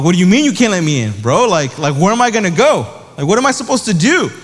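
retold kid's indignant pleading, rushed; incredulous protest. Kindergartner turned away at the after-school program, protesting in disbelief. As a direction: protest with swooping, emphatic questions.

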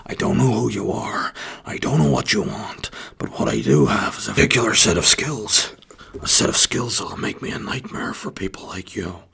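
a hint of a cold, steady threat; half-serious Neeson movie threat; Liam Neeson impression. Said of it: "in a kind of Liam Neeson style way".

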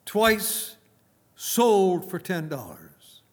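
loud, high auctioneer calling bids; auctioneer's call. Retold or imitated. Auctioneer to the room, a loud rising bid call. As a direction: call it like an auctioneer closing a sale, then slow the last words down. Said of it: "He says".

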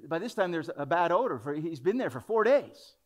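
lightly voiced Martha protesting; Martha's objection. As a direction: plead the smell of the tomb.

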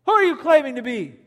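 high, loud, stammering who-are-you; shocked disbelief. Retold or imitated. Religious leaders hearing Jesus claim God's name, shocked and loud. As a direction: blurt it out as if you can't believe your ears. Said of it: "They said to him".

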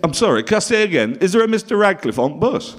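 a Bolton host calling out again, insistent. Retold or imitated. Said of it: "He said".

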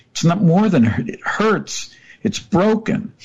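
a firm wife correcting him; wife's voice. Retold or imitated. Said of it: "and she said".

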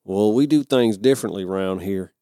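mock Southern local, lightly voiced; put-on Southern accent. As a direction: try on a mild Southern accent. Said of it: "insulted that I even did those two lines".

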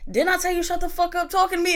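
high, fast back-talk; sassy kid. Retold or imitated. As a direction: snap back like a bratty kid. Kid snaps back at daddy.

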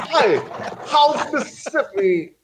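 high, laughing mock greeting; brushed-off greeting; perfunctory. Shown as a demonstration. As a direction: toss off a breezy hello. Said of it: "that seemed perfunctory".

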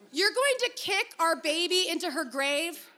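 laughing disbelief through the question; can't hold back a laugh as she asks. Acted. Sierra laughing at Robbie's plan to kick their baby.

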